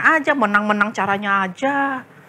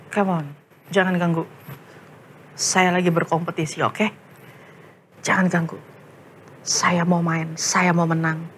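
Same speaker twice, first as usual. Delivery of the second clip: lower, dismissive brush-off; dismissive gamer; 5 semitones lower than usual. Acted. Jojo refusing Christ to keep gaming, lightly voiced dismissive. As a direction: wave off the intrusion, a hint of a greedy boy.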